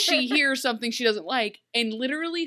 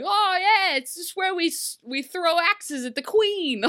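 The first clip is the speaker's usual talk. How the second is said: high, louder, breezy mock confession; casual villager voice; 7 semitones higher, 4 dB louder than usual. Villagers explaining the game to the queen, breezy. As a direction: shrug it off brightly. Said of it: "And they're like".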